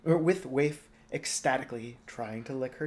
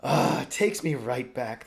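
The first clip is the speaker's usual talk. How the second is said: fond remark; 6 dB louder than usual. Acted. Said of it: "the king remarked".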